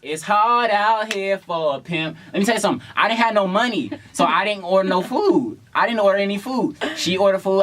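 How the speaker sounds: high-pitched, lively retelling; animated storytelling. Real, not acted. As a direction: play it up for laughs. Playful storytelling, raised voice.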